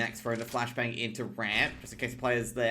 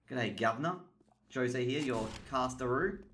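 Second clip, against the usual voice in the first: mock Australian accent. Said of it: "No, that's an Australian accent".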